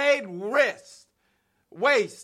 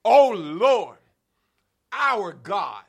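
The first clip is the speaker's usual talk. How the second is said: leading the prayer; slower than usual. Shown as a demonstration. Preacher leading the congregation in prayer, chanting. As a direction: chant it for the church to echo. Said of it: "somebody ought to say that with me".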